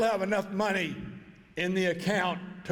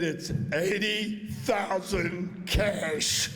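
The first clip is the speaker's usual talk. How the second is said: slow dramatic reveal; much slower than usual. Retold or imitated. Shirley names her price.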